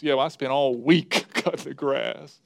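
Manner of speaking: topping the brag with a laugh breaking in; hammed-up rival boast, laughing mid-line; mock one-upping. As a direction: outdo the other guy, half laughing. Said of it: "be careful about one-upping".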